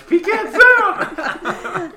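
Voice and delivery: slow, high squeal through laughter; drawn-out, loud laughing words; helpless laughter. Real, not acted. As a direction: barely get it out for laughing. Still laughing at the slip.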